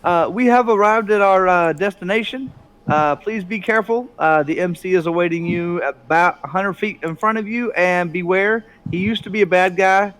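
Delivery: chirpy PA announcer, lightly voiced; cheeky warning over the intercom; leprechaun announcer voice. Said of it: "you hear El Khan over the speakers".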